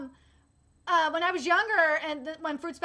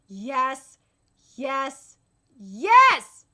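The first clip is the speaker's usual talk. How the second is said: excited cheer; 2 semitones lower, 8 dB louder, much slower than usual. Real, not acted. Cheering new Haikyuu season.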